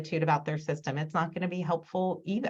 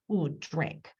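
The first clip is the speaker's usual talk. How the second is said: quiet, drawn-in "Ooh, drink" as if pressing the button; soft modeling voice; 4 semitones lower, 5 dB quieter than usual. Shown as a demonstration. Therapist softly models a word on the board, quiet and slow. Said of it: "I might touch".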